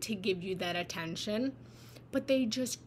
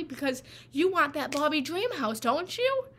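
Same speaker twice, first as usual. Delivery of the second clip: coaxing parent; 5 semitones higher, 4 dB louder than usual. Acted. Father coaxing child about dream house.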